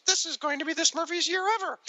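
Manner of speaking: high squeaky cartoon Smurf with a twang; hillbilly Smurf voice. Host voicing a Smurf's line from the comic ad, high cartoon voice. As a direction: play a tiny hillbilly Smurf. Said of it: "the hillbilly Smurf, I guess, goes".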